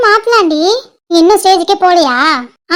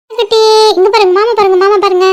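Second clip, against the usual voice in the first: put-on sing-song calls for a baby's attention; cooing and playful, directing an infant's look; doting auntie prattle; coaxing baby talk. Showing baby the uncle.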